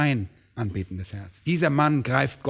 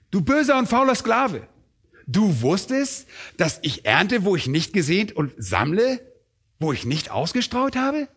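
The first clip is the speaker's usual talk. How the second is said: raised, mocking question from the master; ironic master; 5 semitones higher than usual. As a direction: read it as the master intended, with scorn. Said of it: "ich versuche das mal so vorzulesen, wie es hier wohl beabsichtigt ist". (spöttisch fragender Herr, etwas höher)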